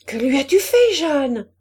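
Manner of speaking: mother's alarmed demand. A narrator's reading. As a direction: call out sharply to a child. Mother calls to child after screams.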